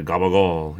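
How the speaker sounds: "gabagool" with g sounds and dropped ending, "gah-bah-GOOL"; local Italian slang. Shown as a demonstration. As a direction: say "gabagool" the Rhode Island Italian way. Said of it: "as we say".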